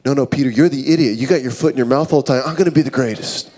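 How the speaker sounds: quick-fire mock squabble; hurried disciple arguing back; bickering. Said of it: "the disciples arguing amongst each other".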